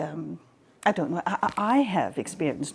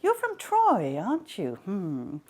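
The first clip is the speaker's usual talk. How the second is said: coy Aphrodite. Acted. Aphrodite's seductive bribe.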